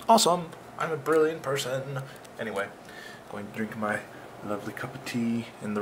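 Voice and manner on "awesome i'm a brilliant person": excited awesome. Shown as a demonstration. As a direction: punch Awesome up with delight.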